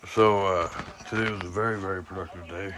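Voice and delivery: toothless speech, dentures out; talking without false teeth in. Real, not acted. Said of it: "my teeth aren't in".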